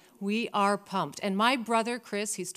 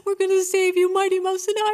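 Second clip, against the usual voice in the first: determined promise; 10 semitones higher, 6 dB louder than usual. Retold or imitated. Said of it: "I'm saying a prayer".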